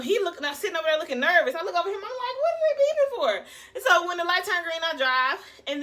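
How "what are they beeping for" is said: high, loud exasperated yell; road rage. Retold or imitated. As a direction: vent at the honking drivers. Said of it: "I got road rage".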